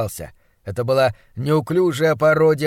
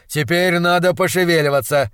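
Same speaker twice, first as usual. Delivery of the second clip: louder, urging doctor voice; brisk monstrologist; 3 semitones higher, 5 dB louder than usual. Acted. Doctor hurrying his assistant toward the birds, brisk. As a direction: get everyone moving.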